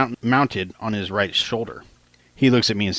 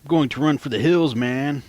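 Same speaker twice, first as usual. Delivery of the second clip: mock yell; 6 semitones higher than usual. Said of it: "Sal yells at the officer".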